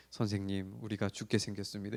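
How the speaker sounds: quiet, low and flat, unbothered; calm low voice. Shown as a demonstration. Preacher shows the wrong calm way disciples would not speak. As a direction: say it like nothing is wrong, softly. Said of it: "차분한 목소리와 깔아진 어떤 목소리로".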